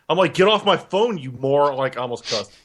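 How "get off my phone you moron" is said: mildly irritated, higher at the start; retold anger. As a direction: snap lightly at a nuisance caller. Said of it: "I was always angry".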